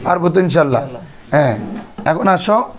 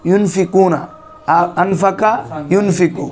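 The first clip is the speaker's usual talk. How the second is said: slow recitation; slower than usual. Shown as a demonstration. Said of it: "কোরআন নিয়ে practice করাইছি".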